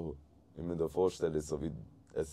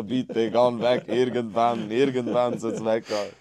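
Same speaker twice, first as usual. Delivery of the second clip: acted pleading; 4 semitones higher, 6 dB louder than usual. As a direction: plead in exaggerated desperation. Retells begging the taste to leave. (gspielts Flehe, luut und höch)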